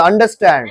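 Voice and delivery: "अंडरस्टैंड" with the r barely touched; light R. Shown as a demonstration. Teacher asking for a light R, "अंडरस्टैंड" with a softened r. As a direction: glide lightly past the r in "अंडरस्टैंड". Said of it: "आर को हल्का बोला".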